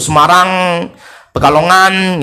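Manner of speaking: "Semarang, Pekalongan" with the ng held; Indonesian ng. Shown as a demonstration. Teacher shows the sound Indonesians like, ng in "Pekalongan". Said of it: "sukanya nga orang Indonesia itu".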